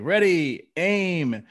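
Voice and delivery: 号令のように声を張って; firing squad command. Retold or imitated. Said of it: "he's like".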